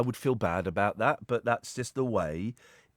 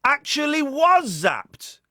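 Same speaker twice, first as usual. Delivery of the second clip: mock spooky voice; 12 semitones higher, 5 dB louder, much slower than usual. Spooky conspiracy voice.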